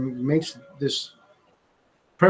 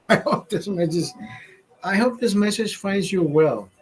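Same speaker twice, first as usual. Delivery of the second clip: slightly raised, mocking recital of the stock phrase; mocking the email line; 4 semitones higher than usual. Mocking the email line to Andrea, slightly raised. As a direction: sneer at the canned email greeting. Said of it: "You're not sending a pigeon out there".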